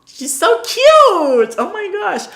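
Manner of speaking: squealing high and loud over something cute; delighted squeal, drawn out slowly; gushing. Real, not acted. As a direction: melt over an adorable fan. Gushing over a fan's clip.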